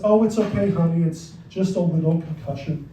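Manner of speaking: understated parental disappointment; disappointed mother. Retold or imitated. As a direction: imitate a mother playing it down, voice dropping away. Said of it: "it sounded like she was disappointed".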